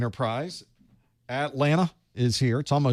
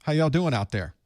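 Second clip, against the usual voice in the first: put-on Southern-accented call to the crowd, pitched higher; Southern greeting; 5 semitones higher than usual. Host greeting his viewers Southern style, with a Southern accent. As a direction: holler a friendly y'all. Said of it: "that's how we work".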